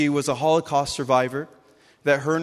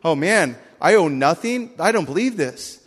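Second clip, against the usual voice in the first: stunned disbelief; 2 semitones higher, 5 dB louder than usual. Pretend. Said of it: "You'd be like".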